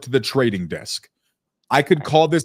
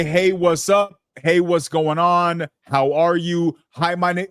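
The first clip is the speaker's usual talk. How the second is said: mock chatty greeting; 6 semitones higher, slower than usual. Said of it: "you did not say".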